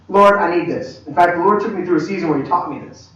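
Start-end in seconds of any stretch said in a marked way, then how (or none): 0.1-1.1 plain, decisive plea; direct request. Acted. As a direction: ask straight out without hedging. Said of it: "ask you a real question".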